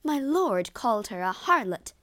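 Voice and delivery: high, loud exclamation; indignant exclamation. A narrator's reading. Emilia tells Lago of the insult, loud exclamation. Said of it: "exclaimed Emilia".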